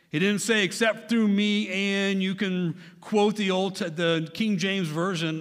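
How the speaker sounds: fervent preaching climax; building emphasis. Real, not acted. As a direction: preach it rising to a peak. Preacher builds repeated contrast.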